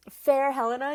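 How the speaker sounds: lightly acted call after a friend; Hermia calling out. Hermia prompting Helena to turn round, calling out. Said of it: "prompted by her line".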